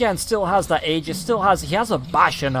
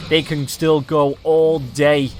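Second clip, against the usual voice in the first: slow, drawn-out boast; acted quote; 2 semitones lower, much slower than usual. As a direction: stretch it out like a cocky hero. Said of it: "V P says".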